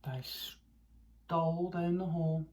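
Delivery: slow, hushed whisper. A narrator's reading.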